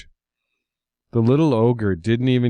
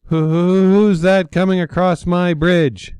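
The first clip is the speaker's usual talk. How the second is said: high, loud friendly ogre voice; little ogre greets a visitor brightly; cheerful little ogre; 9 semitones higher, 5 dB louder than usual. A narrator's reading. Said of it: "the ogre asked cheerfully".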